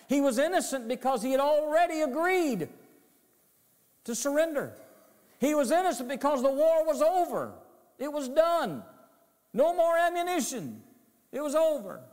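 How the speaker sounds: high, loud, fast preaching climax; fiery preaching. Acted. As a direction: drive it home with rising fervor. Preaching at full force.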